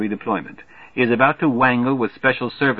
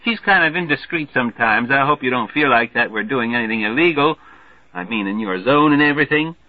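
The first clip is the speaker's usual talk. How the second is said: brash Major Marvey; 2 semitones higher than usual. Acted. Marvey hollering a greeting to the newcomer, brash and hearty. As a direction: boom the welcome like a glad-hander.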